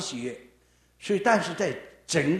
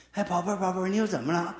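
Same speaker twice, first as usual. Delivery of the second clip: loving; 3 semitones higher, faster than usual. Retold or imitated. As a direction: gently soothe your little one. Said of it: "一个就是很爱的".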